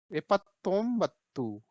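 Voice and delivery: एपत्तोंबत्तू drawn out slowly with the double त held; Kannada pronunciation demo. Shown as a demonstration. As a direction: model एपत्तोंबत्तू slowly for learners. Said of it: "पढ़ेंगे कैसे?".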